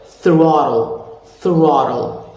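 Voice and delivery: "throttle" with tongue between the teeth; slow, airy th in "throttle"; American TH. Shown as a demonstration. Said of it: "put it between the two".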